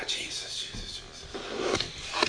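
hushed, unvoiced whisper; very soft, reverent whispering; whispered prayer. Real, not acted. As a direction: whisper the name slowly, prayerfully. Murmured prayer after a sigh.

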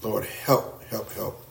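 soft, low, pleading murmur; weak begging prayer. Retold or imitated. Preacher imitating the wrong kind of prayer, soft. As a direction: mimic a feeble begging prayer. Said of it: "that's really not the prayer".

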